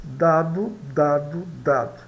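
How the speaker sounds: "dado" with a clear D as in Portuguese; D pronunciation model. Shown as a demonstration. Teacher drilling the letter D, pronunciation model. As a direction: repeat "dado" as spaced model words, stepping downwards. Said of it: "pronunciado como em português".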